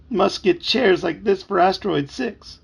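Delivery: slow, high, loud imitation of a possessed dad; drawn-out mock alien-controlled speech; flat voice. A narrator's reading. Boy imitates his dad's strange talk, slow mock-flat voice. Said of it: "his voice is all flat".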